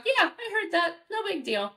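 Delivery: light, easy dismissal; casual calm to the dog; calm reassurance. Shown as a demonstration. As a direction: tell the dog it's nothing. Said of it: "you say to your dog".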